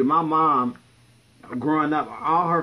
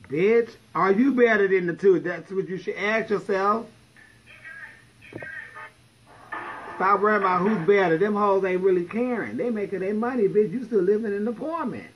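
rant; 5 semitones higher than usual. Real, not acted. Ranting at people comparing themselves.

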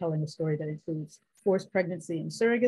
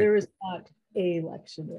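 "not" and "a" each set apart with weight; stress on NOT and A. Shown as a demonstration. Professor concluding her correction, stress on "not" and "a". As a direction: land separately on "not", then on "a".

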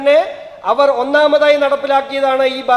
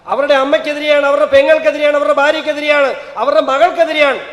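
loud rally oration; 4 dB louder than usual. Real, not acted. Orator building to a climax.

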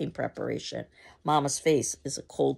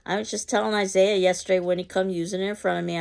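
fast, higher eager agreement; vigorous; 4 semitones higher, 5 dB louder than usual. Acted. Mrs. Johnson eagerly agreeing with Mama, vigorous. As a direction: rush to agree. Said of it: "Johnson vigorously says".

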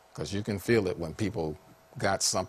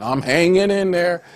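pitiful reply; 9 semitones higher, 8 dB louder than usual. Acted. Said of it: "supposed to be pitiful like them".

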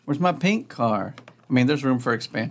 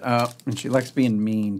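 normal talking voice

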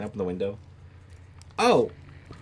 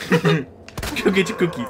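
drawn-out taunt; 8 semitones higher, 7 dB louder, much slower than usual. Real, not acted. Taunting the monster again.

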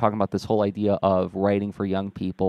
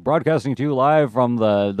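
put-on old-timey radio announcer; 3 dB louder than usual. Shown as a demonstration. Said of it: "more of a old-timey radio announcer thing".

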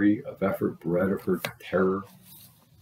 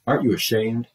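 put-on mother scolding the child, raised voice; yelling mother; 4 semitones higher than usual. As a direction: yell at the child in shame. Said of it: "the mother yelled at her".

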